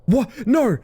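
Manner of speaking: high loud disbelieving yelp; shocked outcry. Real, not acted. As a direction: cry out in sudden dismay. Dying to a goblin in game.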